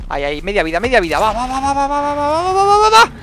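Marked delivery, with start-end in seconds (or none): 1.2-3.1 building excitement. Real, not acted. Gamer chanting during the last troll hits, building to a cry. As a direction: climb from urging to a frantic cry. Tense final blows on troll.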